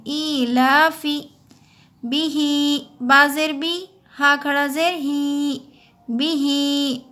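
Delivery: बिही with बा short and ही drawn out; short vowel kept short. Shown as a demonstration. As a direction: clip बा, stretch ही. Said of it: "देखिए हमने बा को नहीं खींचे".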